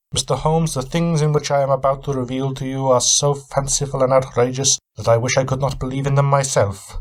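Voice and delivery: a touch of guarded suspicion; Van Helsing. Acted. Weary traveller answering his host, lightly voiced wary reply.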